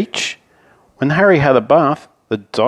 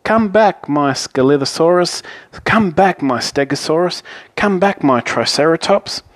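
high-pitched storybook call; raised, summoning voice; 6 semitones higher than usual. A narrator's reading. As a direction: call each one back by name. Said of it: "He called".

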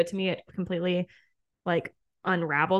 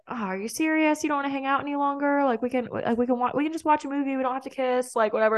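higher, rushed whiny imitation of him; mock pleading guy; 5 semitones higher, faster than usual. She imitates her date begging to hang out, higher whiny plea. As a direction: lightly mimic a guy begging to stay, fast.

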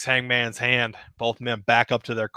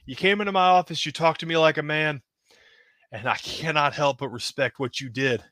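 Flair's voice; faster than usual. Acted. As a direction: play the boss leaning back, gravelly confident. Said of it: "kinda leans back in his chair and says".

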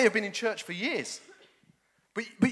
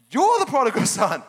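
God's voice; 5 semitones higher, 8 dB louder than usual. Acted. God speaking to preacher's heart.

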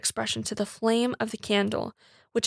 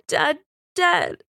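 higher, louder cry of despair; half sob, half shriek; 5 semitones higher, 5 dB louder than usual. A narrator's reading. Girl's grief overflows before her father, half sobbed, half shrieked. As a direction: break into an anguished cry of loss. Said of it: "The last word was a half sob, half shriek".

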